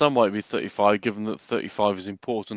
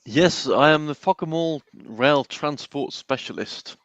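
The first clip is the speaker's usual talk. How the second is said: pompous announcement; 3 semitones higher, slower than usual. Pretend. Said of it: "announce your title".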